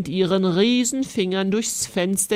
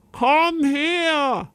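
high, loud challenge; loud command; 7 semitones higher than usual. Acted. The knight challenges the giantess, loud and high. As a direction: order the giantess down. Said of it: "rief sie".

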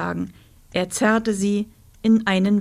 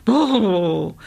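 shivering brrr; 4 dB louder than usual. Acted. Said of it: "Rosa schüttelte sich".

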